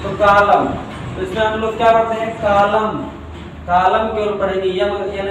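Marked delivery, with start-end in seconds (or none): 0.2-0.7 "कॉलम" ending on M, no N; silent N. Shown as a demonstration. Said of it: "यन का उच्चारण नहीं करते". 2.4-4.1 "कॉलम" ending on M, no N; silent N. Shown as a demonstration. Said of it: "यन का उच्चारण नहीं करते".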